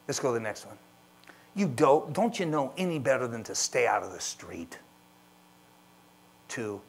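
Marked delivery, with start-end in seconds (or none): 1.5-4.8 loud contemptuous scold. Acted. Parent scolding child about the street, loud. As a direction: snap at the kid.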